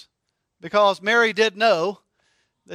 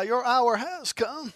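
mock threat, laughing; 4 dB quieter, slower than usual. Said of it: "she might reply".

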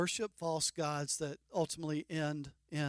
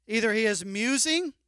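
loud, higher mocking jeer; sarcastic taunt; 4 semitones higher, 6 dB louder than usual. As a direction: taunt them, louder and higher. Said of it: "He was sarcastic".

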